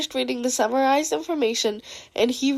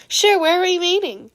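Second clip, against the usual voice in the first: chat character voice; 7 semitones higher, 4 dB louder than usual. Acted. Group chat read aloud, character voice.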